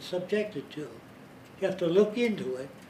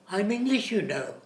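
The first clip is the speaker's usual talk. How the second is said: imitated English; 4 semitones higher than usual. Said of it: "he said".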